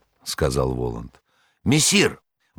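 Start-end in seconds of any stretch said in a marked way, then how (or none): 1.6-2.2 high, joyful cry; excited shout. A narrator's reading. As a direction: burst in calling out gleefully. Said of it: "закричал возбуждённый и радостный Бегемот".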